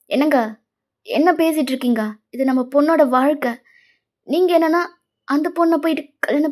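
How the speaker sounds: mildly indignant, pushing each question; indignant mother. Acted. Mother objecting to her husband over their daughter's future, indignant. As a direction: protest to your husband with a little extra force.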